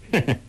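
short, scornful heh-heh; cold sneering chuckle. A narrator's reading. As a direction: let out a brief cold laugh. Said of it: "梅超风冷笑着说".

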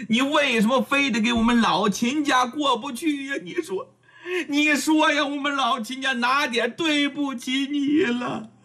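high, tearful accusing cry; tearful rage. Acted. Princess dowager scolding Luo Yi, high and tearful. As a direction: wail it at him through rising tears. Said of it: "说着话掉眼泪了".

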